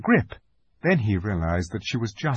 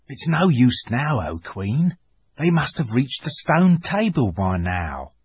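dwarf; 2 semitones higher than usual. A narrator's reading. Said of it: "said the dwarf".

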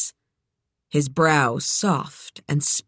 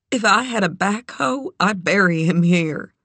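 grieving friend Doc; 3 semitones higher than usual. Acted. Doc grieves over her horse.

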